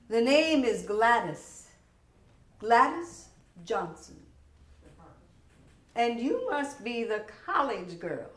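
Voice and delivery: loud, slow, cold rebuke; stern boss. Acted. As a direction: put the new girl in her place. Gladys scolds the new girl.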